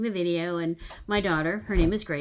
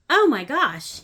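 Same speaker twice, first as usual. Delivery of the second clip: loud, higher gasped oh my gosh; rising alarm; 5 semitones higher, 9 dB louder, slower than usual. Retold or imitated. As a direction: let the shock start to hit. Realization growing, building excitement.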